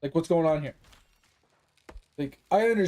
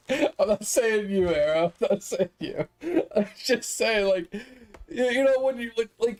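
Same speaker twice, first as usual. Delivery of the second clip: laughing reassurance; 3 semitones higher than usual. Real, not acted. Laughs while reassuring a viewer.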